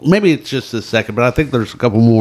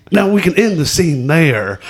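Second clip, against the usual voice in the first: lightly put-on actor impression, pitched up; a touch of a drawn-up movie-star voice; Jack Nicholson voice; 6 semitones higher than usual. Co-host retelling an actor's story, light Nicholson impression. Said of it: "trying to do his Jack Nicholson to, uh, voice".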